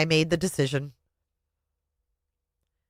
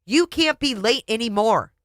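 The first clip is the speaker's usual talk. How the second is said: an angry husband's raised scolding; yelled; 6 semitones higher than usual. Acted. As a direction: drive home each word. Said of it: "he yelled".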